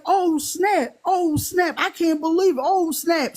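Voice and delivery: high, loud, repeated oh snap; retelling his loud freakout over the tip; loud excited yelp. Retold or imitated. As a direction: imitate him yelling in shock. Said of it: "he gets real loud".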